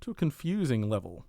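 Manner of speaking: measured, presenter-style reading; even, deliberate narration with careful phrasing; scripted review read. Real, not acted. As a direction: read a prepared game review over music. Reads prepared review over music.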